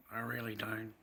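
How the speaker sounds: breathless whisper. Real, not acted. Confessing to viewers he doesn't know, in a whisper. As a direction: barely voice it, worn out.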